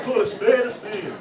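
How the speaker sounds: high, loud, drawn-out Yorkshire voice; hammed-up slow Yorkshire proclamation; mock Yorkshire saying. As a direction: declare it like a caricature Yorkshireman. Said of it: "they have this phrase which they say".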